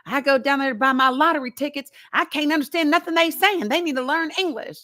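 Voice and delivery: lightly acted exasperated complaint; frustrated. Imitating uncle griping about the gas station owners, mock frustration. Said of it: "he's so frustrated".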